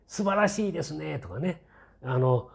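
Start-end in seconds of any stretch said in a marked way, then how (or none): 0.1-1.2 higher-pitched imitation of fawning articles; mock gushing praise. Imitating puff pieces about the princess, mock gushing. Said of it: "全部アゲアゲ記事".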